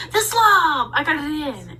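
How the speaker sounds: high, loud squeal of delight; yelling down the stairs, over the moon; excited shout. Retold or imitated. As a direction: shriek it out like a thrilled kid. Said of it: "running down the stairs going".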